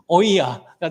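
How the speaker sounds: 오이야 with a lightly voiced Gyeongsang lilt; Gyeongsang dialect. Shown as a demonstration. Pastor repeating the Gyeongsang word for the congregation. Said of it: "비슷하게 해보자면 경상도 말로".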